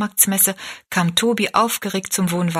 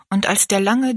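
plain reading voice

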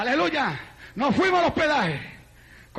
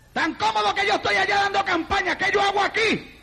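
higher, worked-up retold lament; exasperated complaint; 6 semitones higher than usual. Preacher retelling his regret at coming to Venezuela, exasperated. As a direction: complain in a raised preacher's pitch.

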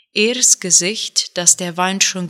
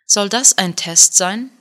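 scornful question, a bit louder; contemptuous; 4 dB louder than usual. Acted. Eldest son scoffing at his father's announcement, scornful. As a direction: sneer at the father's test. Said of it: "Ers Stimme war verächtlich".

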